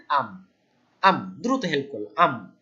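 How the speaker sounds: aam with the m held long; held nasal m. Shown as a demonstration. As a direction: hold the closing m for a beat. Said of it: "এই যে আম বলে ম যে sound হলে".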